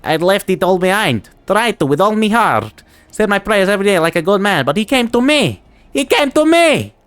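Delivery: rising, high desperate pleading. Acted. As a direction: build into a high desperate cry. Man confessing, desperate.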